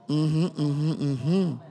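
low, soft little mm-hms; quiet acknowledgement. Acted. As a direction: murmur it low as if busy with a chore. Murmured answers while changing nappies.

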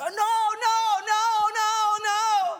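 high insistent no's; mock screaming voices. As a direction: chant the protest, pressing. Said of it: "they go".

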